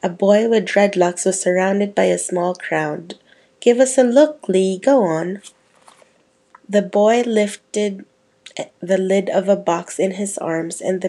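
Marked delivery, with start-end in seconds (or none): 3.6-5.4 excited. Acted. Boy begs to see box.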